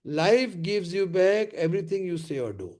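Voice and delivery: said slowly, each word weighed; slow emphatic maxim. Shown as a demonstration. Trainer giving his audience the life lesson, slowly. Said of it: "repeated maxim slow".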